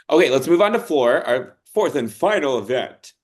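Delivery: loud, pumped-up hype man. Pretend. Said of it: "my hype man voice".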